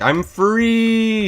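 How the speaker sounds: very high, loud squeaky voice for the dog; gleeful escaping dog. Retold or imitated. Puppy escaping through the fence into the street, squeaky gleeful cry. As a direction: voice the puppy bolting out in triumph. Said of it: "just like".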